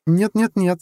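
high, loud rapid-fire refusal; firm refusal. A narrator's reading. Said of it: "сразу заявила девушка". (решительный отказ высоким голосом)

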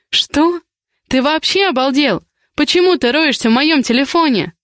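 outraged. Acted. Heroine outraged that he searched her phone, high indignant protest. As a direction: throw the accusation back at him.

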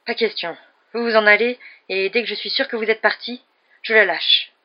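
loud, high, stubborn refusal; defiant refusal. A narrator's reading. Hostage taker to the sheriff, loud refusal. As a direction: dig in and shout it.

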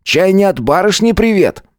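high teasing schoolboy voice; clowning. A narrator's reading. Bully teasing Nik about his outburst, mock-innocent. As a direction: play the fool. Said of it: "Гвоздь дурашливо задрал брови".

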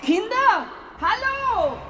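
calling upstairs. Acted. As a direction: call up to them. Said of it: "deine Tante ruft".

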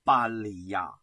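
low, subdued voice of concern; grave, anxious undertone; worried. A narrator's reading. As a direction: voice a misgiving, slowing heavily at the end. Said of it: "不无忧虑地说".

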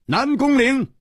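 high, pained cry of the name; anguished call. Acted. Hero confronts his treacherous friend, anguished cry.

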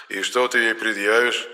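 far-off sneering jab; mocking tease. Ghost teases the hero about his weak case, mocking. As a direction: needle him with scorn. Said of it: "насмешливо поддел меня Енох".

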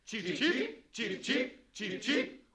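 hoch und laut zwitschern wie ein Vogel; Cheep, cheep laut und steigend piepsen; Vogelgezwitscher. Acted. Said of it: "Zwitschert nur nicht allzu müde". (Bürger zwitschern auf Befehl des Bürgermeisters, hoch und laut)

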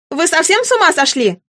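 put-on a mild scolding shout at the boys; teacher shouting. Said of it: "кричит на них учительница". (учительница отчитывает, слегка повышая тон)

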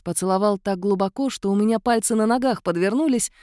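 ordinary delivery

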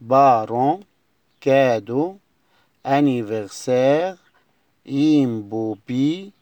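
loud rising roll-call of words; list recitation. Shown as a demonstration. Teacher reads back all the new words to the class. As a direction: call each word out like a list. Review list read aloud.

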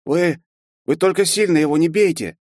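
awkward smiling plea. A narrator's reading. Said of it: "неловко улыбнувшись".

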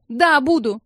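high, loud shouting; furious outburst. A narrator's reading. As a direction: shout the whole family down. Irie yells at everyone. (высокий громкий яростный крик)

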